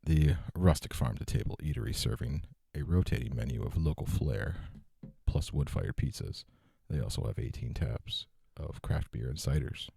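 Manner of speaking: polished customer service ad read. Pretend. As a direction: read it like a polite restaurant host. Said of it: "put on my customer service voice here".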